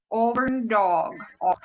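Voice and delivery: slow "Auburn dog" with a rounded "aw"; drawn-out "Auburn dog", then "Awe" alone; attempted Boston vowel. Shown as a demonstration. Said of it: "so I'll do my best".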